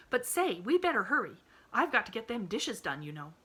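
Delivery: lightly voiced homespun maid; fussing, chattering servant girl; country housemaid. A narrator's reading. Nancy voiced in story.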